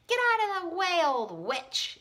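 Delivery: put-on high loud rude boy; high bossy boy shout; yelled. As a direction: shove past her with a yell. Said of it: "yelled at Ramona".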